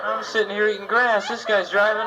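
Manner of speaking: hammed-up cow voice, rising high; cow's thoughts. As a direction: play the puzzled cow. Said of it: "we expect that cow to think".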